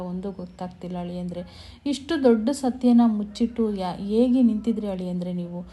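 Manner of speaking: acted anguish in swelling bursts; storyteller's impassioned, mildly plaintive outpouring; retold tearful lament. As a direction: plead as the distressed mother-in-law, without real tears. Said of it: "ಅಂತೇಳಿ ಪಾಪ ಅಳ್ತಾ ಇರ್ತಾರೆ".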